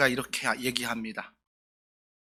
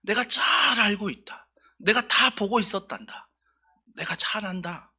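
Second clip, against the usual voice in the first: God's reassuring voice; 4 semitones higher than usual. Retold or imitated. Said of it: "하나님께서 우리에게 이런 말씀하실 거예요".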